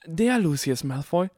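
high, incredulous star-struck question; gasped awe. A narrator's reading. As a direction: gasp it, stressing "Der". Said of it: "keuchte Harry Potter".

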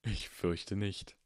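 slow, soft, smiling reply; gently amused old wizard. Acted. Dumbledore answering Harry, slow, soft and smiling. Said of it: "sagte Dumbledore lächelnd".

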